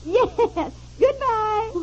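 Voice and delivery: put-on gushing phone manner with affected English accent; a touch of affected English politeness. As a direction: lightly put on an English accent for your host. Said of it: "the English accent you're putting on".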